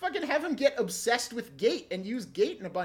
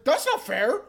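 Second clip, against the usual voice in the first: whiny; 4 semitones higher, 4 dB louder than usual. Retold or imitated. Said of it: "he really says it in such, like, a whiny way".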